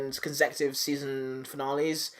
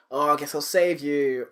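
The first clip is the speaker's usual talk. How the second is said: drawn-out, grudging mock hero; slow, half-hearted retold rescue line; slow reluctant offer. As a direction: take your time over each word. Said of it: "really slowly".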